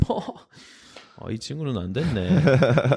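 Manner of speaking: quick, smug aside with a sneering laugh; spiteful mocking quote. The Russian rival mocking Andreas after the interview, quick smug sneer. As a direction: imitate the rival rattling off a snide dismissal. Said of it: "진짜 얄밉게".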